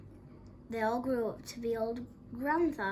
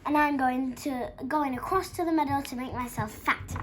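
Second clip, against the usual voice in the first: loud, emphatic big goat declaration; big billy goat's defiant bellow; great big bellow; 4 semitones higher, 8 dB louder than usual. A narrator's reading. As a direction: boom it out boldly, slightly raised in pitch. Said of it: "bellowed the big billy goat Gruff in his great big voice".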